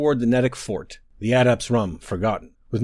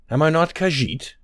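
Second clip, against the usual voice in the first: sincere; 6 semitones higher than usual. Acted. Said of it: "with all sincerity".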